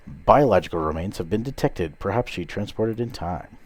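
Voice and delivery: brisk officer reading reports; urgent sci-fi officer; starship officer voice. Acted. Reads the ship computer's lines.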